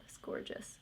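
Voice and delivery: hushed, whispered admiration; awed whisper. Real, not acted. Showing viewers her eye makeup, whispered in awe.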